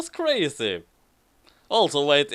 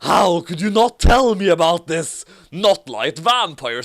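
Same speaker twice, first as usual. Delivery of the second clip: mock scream; 3 semitones higher, 5 dB louder than usual. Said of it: "screamed like mad".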